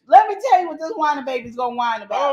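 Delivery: loud, fast, building tirade at a useless husband; furious rant. Acted. Acted rant at the spouse.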